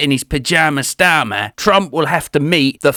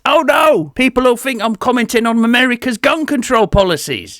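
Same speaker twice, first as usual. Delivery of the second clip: mock panic; 7 semitones higher than usual. Comic panic at an accidental pun.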